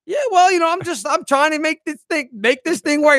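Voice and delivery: high, halting hurt excuses; imitating the comedian's defeated explanation; deflated comic. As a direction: whine it like a wounded performer. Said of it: "he was just like".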